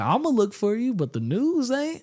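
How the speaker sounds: high, slowing punchline with a grin; punchline voice of the comic. Retold or imitated. Comic reassures a black woman in the crowd, sly and high. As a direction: land the joke gently. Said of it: "He's like".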